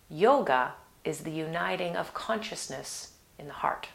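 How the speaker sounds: soft whispered quote; whispering. Real, not acted. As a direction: breathe it out gently. Quotes a tender translation.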